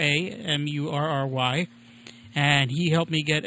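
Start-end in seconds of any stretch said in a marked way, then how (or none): 0.0-1.7 spelled out. Shown as a demonstration. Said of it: "Mike Murray with no A".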